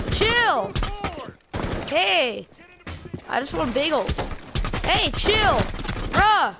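panicked high yelling at a friend; frat bro. Real, not acted. Being attacked in the game.

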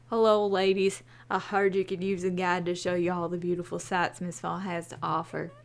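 a ladies' man introducing himself; flirty ranger. Acted.

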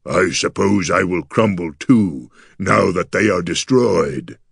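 mournful creature lament, often slowed; gargoyle near sobbing. A narrator's reading. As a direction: lament heavily in the monster's voice, with only a touch of a sob. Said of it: "The gargoyle's voice turned into a sob".

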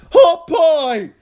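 high, full-force scream; screamed battle cry. A narrator's reading. Hot Pie screaming beside Arya as she fights, wild battle scream. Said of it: "while Hot Pie screamed".

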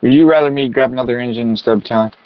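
crackly handheld radio transmission. Acted. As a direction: talk through a fire radio. Firefighter replying over radio.

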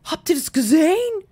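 high, loud excited fan squeal; amazed gushing. Acted. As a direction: swoon over the muscles like a fangirl. Awed by the sim's muscles.

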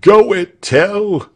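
high, loud cheer of encouragement; crowd's cry. A narrator's reading. Crowd urges Tell to fight, high cry. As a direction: egg him on in a high shout. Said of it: "they cried".

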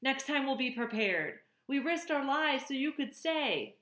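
high, loud pleading cries from the crowd; the island animals begging Roz to stay, loud and high; crying out. A narrator's reading. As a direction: call out desperately to stop her leaving. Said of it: "Voices cried out".

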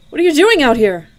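loud, high surprised question; calling out. Acted. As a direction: call the question up to someone above. Calling up from the well bottom.

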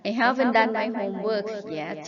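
haven't stressed, read very slowly; slow model reading. Shown as a demonstration. Teacher reading a model sentence for students to repeat, slowly. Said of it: "หัดอ่านตามประโยคเหล่านี้".

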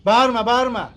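loud, irritated telling-off; annoyed order. Acted. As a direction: cut the shouter off loudly. Resident orders vendor to stop shouting.

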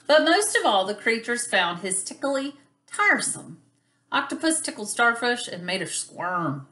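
lively, lilting picture-book narration; story read to children. A narrator's reading. Teacher reads about a tickly octopus to children, lilting storytelling. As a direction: read it playfully for small children.

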